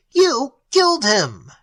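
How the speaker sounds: choked accusation. Acted. Elliot accusing his familiar, high choked cry. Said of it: "Elliot choked".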